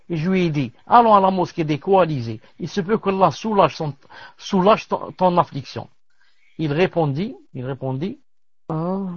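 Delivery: measured reading of a tale; story narration. Acted. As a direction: read the tale out phrase by phrase, with pauses. (lecture posée d'un récit)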